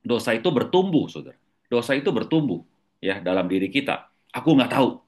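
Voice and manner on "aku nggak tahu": mildly emphatic retold denial; exclamation. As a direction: push the denial out a little harder. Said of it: "tanda seru".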